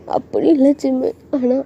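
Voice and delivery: a touch of whiny upset; acted crying. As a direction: hesitate as if holding back tears. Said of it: "இப்போ எதுக்கு அழுதுட்டு இருக்க".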